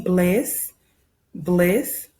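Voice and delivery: bliss said clearly twice so the class can repeat it; choral model. Shown as a demonstration. Teacher leading the class in saying the word together, clear and even. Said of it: "say it with me".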